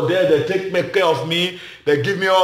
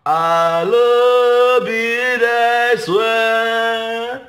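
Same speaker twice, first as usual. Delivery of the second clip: mocking a flat paper-read joke; 3 semitones higher, 4 dB louder, much slower than usual. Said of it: "you go just carry paper".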